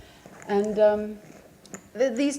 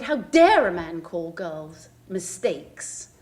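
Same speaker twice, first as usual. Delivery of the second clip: indignant retort; 3 semitones lower, 5 dB louder, much slower than usual. Retold or imitated. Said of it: "And the blood boiled".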